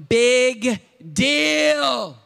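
dismissive. Retold or imitated. Friends unimpressed.

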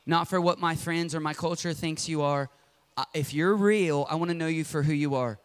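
model prayer. Shown as a demonstration. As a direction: pray it honestly.

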